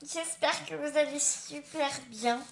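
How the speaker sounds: slushy lisp, s turning to sh; lisp after dental surgery. Real, not acted. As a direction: talk with a fresh post-surgery lisp. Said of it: "un peu avec un cheveu sur la langue".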